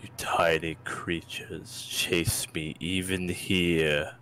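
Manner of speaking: deep, slow rumbling dragon. Acted. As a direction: rumble it slowly like a huge beast. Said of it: "a deep rumbling voice from the cave".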